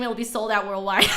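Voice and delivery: laughing through the words; a giggle running under the joke; amused, half-laughing line. Real, not acted. Joking about buyers selling out.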